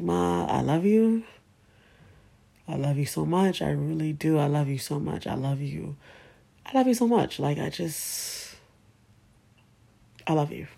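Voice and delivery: tender farewell. Retold or imitated. Daughter kissing her dying mother goodbye, soft and tender. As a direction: murmur it close, saying goodbye.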